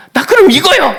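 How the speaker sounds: high, loud delighted cry; joyful child. Retold or imitated. Child happily picking the jacket, high and loud. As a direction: burst out like a thrilled kid.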